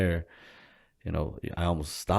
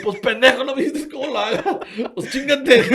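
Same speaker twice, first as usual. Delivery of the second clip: imitating scolding mom; 7 dB louder than usual. Mom's scolding reply voiced.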